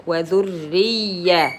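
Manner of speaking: slow وذرية, leaning on a double y; doubled ya. Shown as a demonstration. Teacher explains shadda on ya, doubling the y in وذرية. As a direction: hold the y of وذرية as two letters. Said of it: "as if two ياء".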